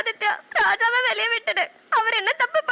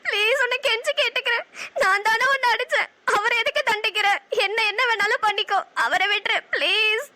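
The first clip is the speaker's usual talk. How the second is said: tearful pleading. Acted. Begging villain to free lover.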